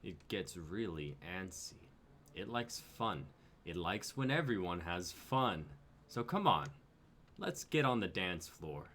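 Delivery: lightly voiced, coaxing alien enforcer; menacing Tivo. Alien teen coaxing the cornered pair, lightly menacing. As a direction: lure them onto the dance floor with fake cheer.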